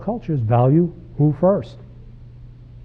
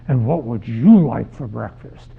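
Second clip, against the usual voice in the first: slow, lower, pointed mother's question; mom questioning; 4 semitones lower, 4 dB louder than usual. Acted. Mom turning to the five-year-old after the smack, slow and pointed. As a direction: draw it out as a mom addressing the next kid. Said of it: "looks at the five-year-old and says".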